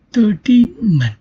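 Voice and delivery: "thirteen men" with the stress moved onto THIR. Shown as a demonstration. Teacher shows learners how stress shift moves to the beginning, stress on THIR. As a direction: stress the first syllable of "thirteen". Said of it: "beginning of the word".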